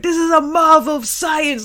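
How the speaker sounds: high, loud mad scientist voice; excited scientist. Retold or imitated. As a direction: gush like a proud scientist. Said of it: "the scientist, of course, is like".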